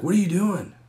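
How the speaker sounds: loud, high voice through the door; loud calling. Retold or imitated. Buddy asking through the door, loud. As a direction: call out, puzzled. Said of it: "He's like".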